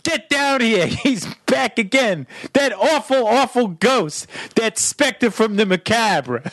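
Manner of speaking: high, slow scandalized granny; grandmother. Retold or imitated. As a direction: draw out awful like an old lady. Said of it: "she'd be like".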